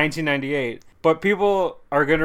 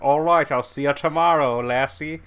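imitated Irish accent. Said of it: "like, an Irish accent, too".

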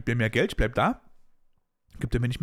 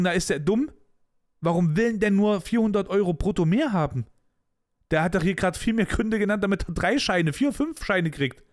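spöttische Chefs; 5 semitones higher than usual. Retold or imitated. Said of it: "Dann würden die sagen".

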